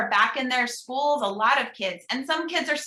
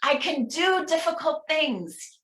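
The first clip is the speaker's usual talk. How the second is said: leading a mantra; 5 semitones higher than usual. Shown as a demonstration. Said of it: "Say it with me".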